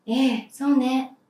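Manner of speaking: ええ long and calm in agreement; agreeing ee. Shown as a demonstration. Teacher in a skit agreeing to go search, calmly. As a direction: nod along with ええ, slowly. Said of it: "音の高さと顔の表情に注目し".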